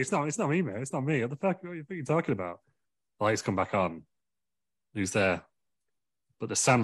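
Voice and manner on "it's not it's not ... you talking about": high, innocent protest; mock denial. Kim Jong-un denying it to Vince, high and innocent. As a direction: play it the innocent accused.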